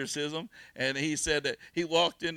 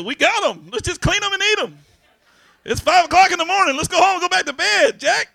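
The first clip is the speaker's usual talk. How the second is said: whiny loud plea; 12 semitones higher, 11 dB louder than usual. Retold or imitated. Retold pleading on fishing trip.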